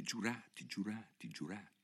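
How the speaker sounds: very soft murmured repetition; low voice. A narrator's reading. Alice repeats a word to herself, proudly, in a low voice. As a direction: repeat it under your breath. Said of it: "se la ripeté a bassa voce".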